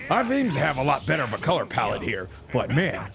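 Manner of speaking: lightly voiced cocky fighter, chuckling between remarks; lightly put-on hero voice; in-character anime hero. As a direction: play the Super Saiyan hero enjoying his own moves. Plays the game speaking as its fighter.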